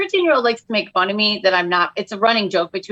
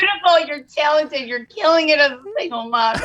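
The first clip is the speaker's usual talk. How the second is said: mock morning affirmation; 4 semitones higher than usual. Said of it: "You're like".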